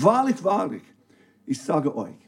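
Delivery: solemn scripture opening; solemn emphasis. Shown as a demonstration. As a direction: intone Wahrlich, wahrlich as a solemn opener. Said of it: "ihr fangt an mit diesem Statement".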